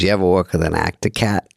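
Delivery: imitated comic asking, "actor" as "actuh"; John Lovitz. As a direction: say "actor cat" in character, R dropped. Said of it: "And he goes".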